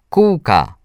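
put-on high-pitched happy call of a little boy; joyful shout. A narrator's reading. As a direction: call it out with delight. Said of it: "zawołał radośnie Mikołaj".

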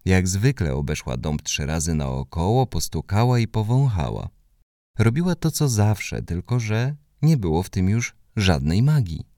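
ordinary delivery

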